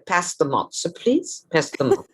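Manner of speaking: a playful demo of a British Jewish mother's accent. Shown as a demonstration. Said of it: "This is British Jewish".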